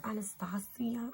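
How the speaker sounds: "Anastasia" as ah-nuh-STAH-see-uh; chosen pronunciation. Shown as a demonstration. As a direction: open ah vowels in "Anastasia". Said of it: "I think it's Anastasia".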